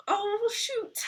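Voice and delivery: high, squeaky tearful voice; crying. Real, not acted. Streamer greets David as she tears up, crying. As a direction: squeal through real happy tears. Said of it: "I'm crying".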